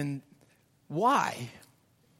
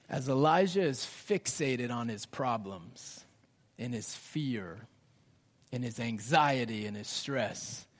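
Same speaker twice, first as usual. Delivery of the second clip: soft, intimate; 7 semitones lower, 7 dB quieter than usual. Acted. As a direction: lower and softer, lingering on each word. Dwelling softly on his fear.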